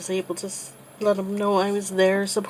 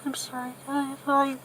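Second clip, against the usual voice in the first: higher, tearful apology, hurried; emotional, near tears; 4 semitones higher, faster than usual. Real, not acted. Apologizing to viewers mid-story, voice breaking with tears. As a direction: voice breaking as she pushes through the words. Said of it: "I didn't realize it was gonna be this emotional".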